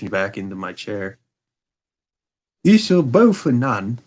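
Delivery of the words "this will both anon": lightly voiced foreign nobleman, higher; a proud count, a touch higher than the narration; a hint of a haughty German king; Bohemian king. King speaks.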